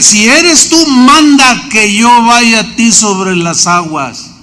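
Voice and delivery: high start, slow, unsure plea; doubtful plea. Acted. Peter asking to walk on the water, doubtful plea. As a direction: ask him to prove it, slowly.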